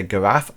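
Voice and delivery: "giraffe" with a hard k start, like kuh-raffe; quirky giraffe. Shown as a demonstration. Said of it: "I say certain words strangely".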